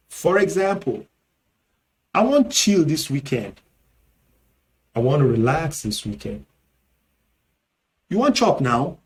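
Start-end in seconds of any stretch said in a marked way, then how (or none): 2.1-3.6 Nigerian Pidgin. Shown as a demonstration. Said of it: "In Nigerian Pidgin". 8.1-9.0 Nigerian Pidgin. Shown as a demonstration. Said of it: "In Nigerian Pidgin".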